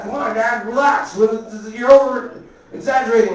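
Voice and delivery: high-pitched, mild mock panic; imitated pleading kid. Boy trying to calm his dad, high anxious pleading.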